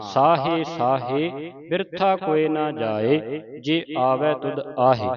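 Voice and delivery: slow, measured Gurbani recitation; deliberate teaching recitation of sacred verse; scripture recitation. Shown as a demonstration. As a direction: recite slowly, drawing out line endings.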